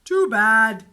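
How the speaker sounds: loud firm big brother; shouting. A narrator's reading. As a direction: put your foot down, loud. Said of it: "shouted Henry".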